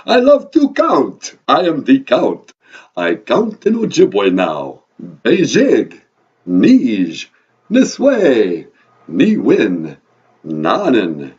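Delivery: slow, booming vampire proclamation; loud, exultant Transylvanian accent with huge swoops; Count. Acted. Count proudly counting in Ojibwe, booming vampire accent. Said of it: "your vampire accent".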